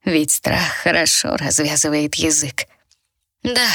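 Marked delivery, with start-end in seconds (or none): 3.4-3.7 drawn out on exhale. A narrator's reading. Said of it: "протянула я на выдохе".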